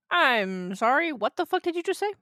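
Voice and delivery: stunned, can't believe what she heard; shocked disbelief. Real, not acted. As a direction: voice jumps up high in disbelief. Shocked by the Satan story.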